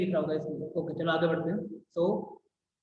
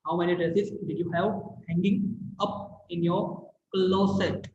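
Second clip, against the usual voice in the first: stylish teasing; much slower than usual. Shown as a demonstration. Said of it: "देखा कैसे पूछा?".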